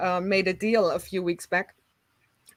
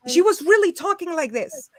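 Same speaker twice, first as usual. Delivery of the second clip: higher voice sent through the nose; imitated nasal talk; 7 semitones higher, 4 dB louder than usual. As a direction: mimic the nasal neighbor. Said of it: "only talking through her nose".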